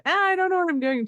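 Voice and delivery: clueless beginner. Acted. Host mimics someone starting out, helpless. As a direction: lightly voice someone lost and overwhelmed.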